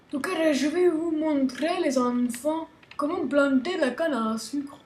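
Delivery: put-on a light southern French accent, sing-song. Teaching kids to plant sugar cane, southern French accent. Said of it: "je sais pas pourquoi je prends cet accent".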